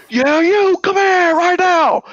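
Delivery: high mock tough-guy threat; threatening guy. Retold driver threatening him, high mock menace. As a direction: ham up the bully. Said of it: "He goes".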